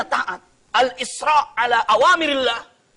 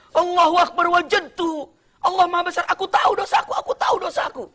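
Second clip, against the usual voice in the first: joyful realization; 8 semitones higher than usual. Acted. Imam realizes his sin.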